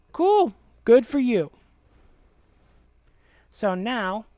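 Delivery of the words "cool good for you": high, mocking sarcasm; sarcastic. Real, not acted. Answering a needy friend's plea with dismissive sarcastic cheer. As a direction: brush him off with fake cheer.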